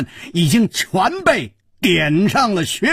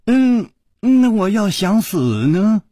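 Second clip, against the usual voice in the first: offhand; 4 semitones higher than usual. Acted. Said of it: "淡淡的说".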